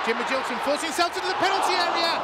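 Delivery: excited. Real, not acted. Attack in live commentary.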